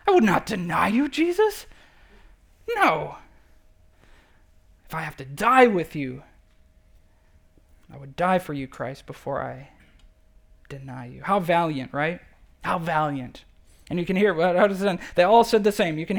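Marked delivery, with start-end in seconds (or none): 0.1-11.2 mock insistent vow. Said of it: "He says emphatically, insistently".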